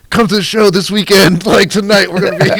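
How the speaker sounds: mock show plug. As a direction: parody our own sign-off. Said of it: "we end every episode with".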